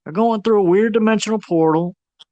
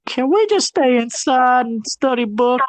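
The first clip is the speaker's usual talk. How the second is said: put-on nerdy kid voice; 7 semitones higher than usual. Kids voiced in plot retelling.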